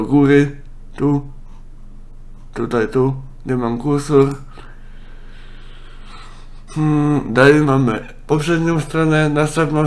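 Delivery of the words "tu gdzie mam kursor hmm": ordinary delivery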